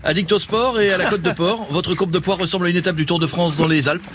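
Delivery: Jean-Luc Delarue. Acted. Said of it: "bonsoir Jean-Luc".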